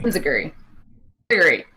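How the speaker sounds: "Inziguri" repeated as in-zih-gur-ee; practised pronunciation. Shown as a demonstration. Host echoing co-host to learn it, "Inziguri" as in-zih-gur-ee. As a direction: drill "Inziguri" with a Z and no YOO glide.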